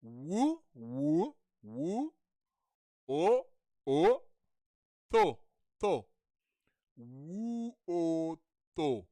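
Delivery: "Wu, o, to" as separate syllables; syllable-by-syllable demo. Shown as a demonstration. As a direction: draw out "Wu", then "o", then "to". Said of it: "it's not very difficult to say".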